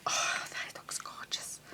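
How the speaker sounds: real hushed, admiring whisper. Real, not acted. Crafter admiring the card on the table, whispering. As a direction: whisper it very softly under your breath. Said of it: "I don't know why I'm whispering".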